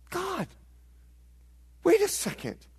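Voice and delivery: high-pitched, bewildered appeal to God; psalmists' protest. Acted. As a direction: object in pained disbelief, pitched well up.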